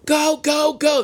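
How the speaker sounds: high-pitched mock urgent cry; retold scream. Girlfriend screaming at her boyfriend on the moped, imitated. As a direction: imitate a panicked passenger urging the rider on. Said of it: "screaming at her boyfriend".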